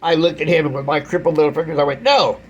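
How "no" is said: sharp, high, shouted refusal; angry no. Retold or imitated. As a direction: snap a loud no at him. Shouting no at the man.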